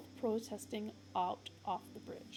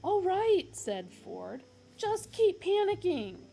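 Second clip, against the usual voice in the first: high, loud hurried calming; higher, louder hurried Ford; Ford's voice; 10 semitones higher, 8 dB louder than usual. Acted. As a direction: try to settle a panicked friend.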